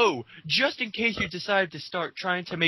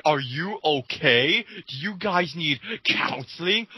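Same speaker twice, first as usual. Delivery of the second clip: slow mock concern; slower than usual. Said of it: "it's like".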